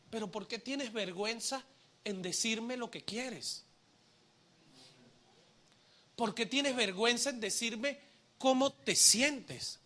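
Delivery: soft, tender questioning with long pauses; gentle reassurance. Acted. God asking an ashamed believer to open up, tender. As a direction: ask softly, as a loving father would.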